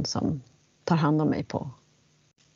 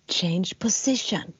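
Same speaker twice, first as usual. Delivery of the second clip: slow, drawn-out hissy command; imitated hiss; slower than usual. Teacher right in the student's ear, imitated hiss. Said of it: "Så här väsigt".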